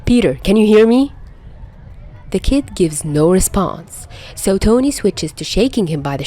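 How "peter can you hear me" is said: urgent. A narrator's reading. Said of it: "tapping his cheek urgently".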